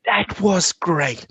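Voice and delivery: slow, gentle praise; encouraging teacher voice. Shown as a demonstration. Teacher praising a student after reading, slow and encouraging. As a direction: praise a child kindly. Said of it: "I will say to them at the end".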